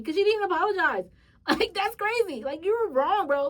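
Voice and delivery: high, loud indignant laugh; laughing disbelief. Real, not acted. Venting to viewers about the lady, laughing. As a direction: laugh at how crazy it was.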